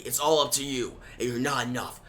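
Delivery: low, soft, cold voice of a doubting mentor; deep hushed taunting mentor; Batman. Acted. Voices Batman in Tim's head.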